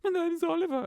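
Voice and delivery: hammed-up posh southern English accent. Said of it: "talk like that".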